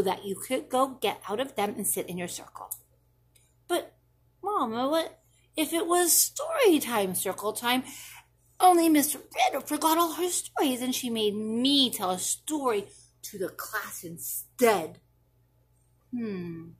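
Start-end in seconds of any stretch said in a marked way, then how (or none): 3.7-15.0 lightly voiced anxious little kid, higher; a child spinning what-ifs for mom; worried child. Child asking Mama a worried what-if, higher and lightly voiced.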